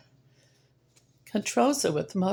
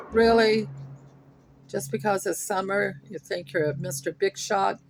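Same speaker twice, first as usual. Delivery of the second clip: sarcastic scolding; 2 semitones higher than usual. Real, not acted. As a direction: put the show-off neighbor in his place. Scolding noisy neighbor sarcastically.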